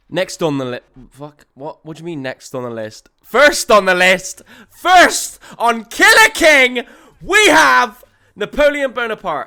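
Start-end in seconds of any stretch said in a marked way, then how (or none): 3.2-9.4 very loud, high, excited full-throated shouting. Announcing the first entry on the list, shouting. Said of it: "I'm sorry for shouting".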